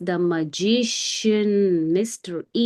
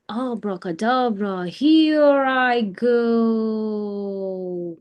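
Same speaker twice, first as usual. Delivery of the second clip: magic spell; much slower than usual. Acted.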